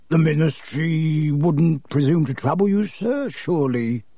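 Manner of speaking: oily, eager to please; fawning shopkeeper. Acted. Borgin flatters his rich customer, fawning.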